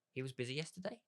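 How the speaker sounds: light rising question, echoing the words back; curious tone. Shown as a demonstration. Listener mirroring a friend's last words, curious rising tone. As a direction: sound curious about what you just heard. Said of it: "in a curious tone".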